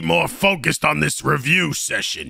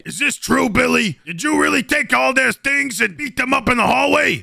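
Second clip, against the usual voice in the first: mock outraged shout; 6 semitones higher than usual. Teacher confronting the bully.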